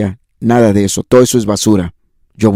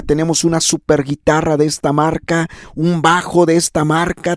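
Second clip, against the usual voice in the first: higher, mocking boast of proud churches; mock bragging voice, pitched up; boastful mock; 5 semitones higher than usual. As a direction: show off the gear like a bragging pastor. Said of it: "Y se jactan".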